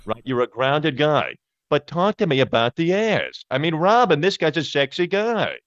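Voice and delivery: lightly voiced, throaty nasal radio host; a hint of Howard Stern; Howard Stern impression. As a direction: needle the guest about his love life. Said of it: "Let's get a little Howard Stern".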